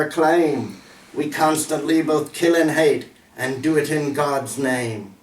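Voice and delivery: emphatic, measured verse reading; poem recital. Acted. Poet warning of the path to hell, solemn recital. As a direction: declaim the rhymed lines with deliberate stresses.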